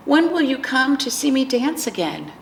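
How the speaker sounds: a hint of a little girl asking wistfully; Charlie. Voices child Charlie missing grandma.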